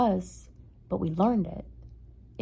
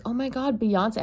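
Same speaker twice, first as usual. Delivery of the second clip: higher, fake starstruck gasp; mock excited; 4 semitones higher than usual. Kid greeting a stranger, mock starstruck. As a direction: gush at a random man like he's a star. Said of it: "be like".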